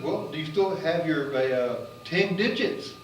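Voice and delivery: joking scientist. Retold or imitated. Scientist asks about frostbite.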